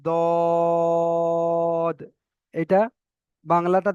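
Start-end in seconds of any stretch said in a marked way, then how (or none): 0.0-2.0 দদ with rounded lips and held vowel; round-mouth dad. Shown as a demonstration. Teacher to students, rounded দদ. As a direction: say দদ full and round. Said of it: "মুখ গোল করে পড়তে হবে".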